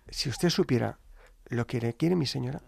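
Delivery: soft, gentle reassurance; very sweet voice. Retold or imitated. Delivery man reassuring priest, gently sweet. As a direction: speak tenderly, letting it sink in. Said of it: "Con una voz muy dulce".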